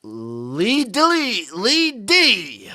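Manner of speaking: high, slow bad French accent. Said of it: "Your French accent is like all your other accents".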